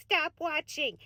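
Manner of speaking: a hushed, settled repeat; soft repeat. Acted. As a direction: say it again, quietly and firmly. Softer repeat of the plea.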